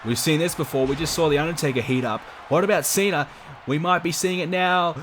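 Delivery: lively wrestling play-by-play call; wrestling commentator. Acted. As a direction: call the match like a ringside announcer. Live game match commentary.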